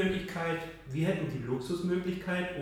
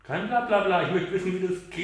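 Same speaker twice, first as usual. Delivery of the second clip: pushy, loud demanding customer; impatient user voice; 5 semitones higher, 4 dB louder than usual. Pretend. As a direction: act like a user who wants answers now. Spielt ungeduldigen Nutzer. (ungeduldiger Nutzer, laut fordernd)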